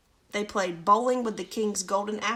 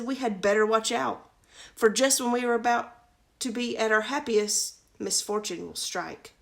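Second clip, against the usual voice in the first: angry fairy; 3 dB louder than usual. Acted. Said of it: "she got really angry".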